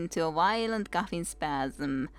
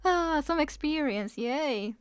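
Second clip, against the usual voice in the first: put-on old woman voice; 7 semitones higher than usual. Old woman explains joke.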